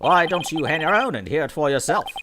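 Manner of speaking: high, theatrical announcement; hammed-up detective. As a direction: declare it like a showy detective. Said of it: "going all in with the little Korean voice".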